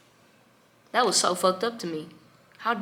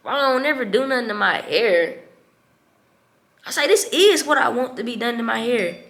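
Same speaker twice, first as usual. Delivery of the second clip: louder, higher insistence; retold outburst; 5 semitones higher, 7 dB louder than usual. Daughter telling her father about her hair, retold outburst. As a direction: reenact putting your foot down, loudly.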